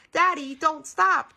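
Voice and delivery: put-on loud, high, drawn-out child's protest; stretched high wail of protest; crying out. A narrator's reading. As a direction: plead loudly like an impatient kid. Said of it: "cried Petey".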